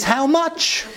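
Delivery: a father laughing as he answers his daughter; laughing reply. Retold or imitated. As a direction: chuckle out How much as a resigned father. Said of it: "the answer to the question is".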